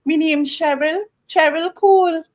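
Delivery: light Geordie impression of a singer; a hint of Geordie, mimicking a singer; Geordie accent. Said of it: "I just remember her going".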